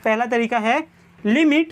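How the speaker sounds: very slow, word by word, for notes; slow dictation. Shown as a demonstration. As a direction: spell out the formula slowly for writing. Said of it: "teacher dictating formula". (धीरे-धीरे सूत्र लिखवाते हुए)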